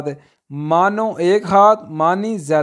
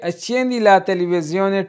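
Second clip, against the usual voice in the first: slow teaching demo; much slower than usual. Shown as a demonstration. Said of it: "teacher models Italian very slowly".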